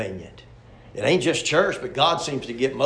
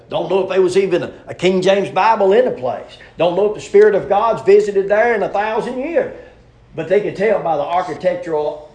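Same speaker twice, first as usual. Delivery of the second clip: preaching shout; 5 semitones higher, 9 dB louder than usual. Real, not acted. Preaching at full force.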